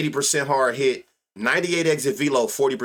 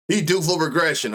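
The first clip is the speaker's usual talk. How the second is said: mock know-it-all; 2 semitones higher than usual. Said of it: "I learned a new word".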